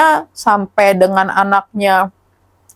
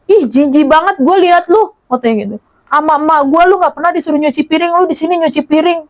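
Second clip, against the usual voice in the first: higher-pitched retold scorn; mock disgust; 4 semitones higher than usual. Child scolds father over washing dishes, disgusted. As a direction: imitate a child appalled at a parent.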